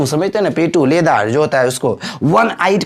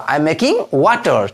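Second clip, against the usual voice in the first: "I am making", held apart from "water"; slow model sentence; much slower than usual. Shown as a demonstration. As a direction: spell out "I am making water" slowly, piece by piece. Teacher repeats sentence slowly for learners.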